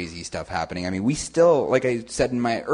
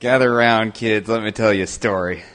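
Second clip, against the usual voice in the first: storyteller voice; 7 dB louder than usual. Pretend. Mock storyteller opening.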